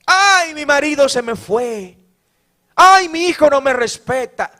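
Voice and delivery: high wailing "Ay" sliding into a grumble; whiny mock complaint. Preacher mocks a complaining churchgoer, whiny wail. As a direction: mimic a churchgoer moaning about prices. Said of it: "Llorando, quejándose".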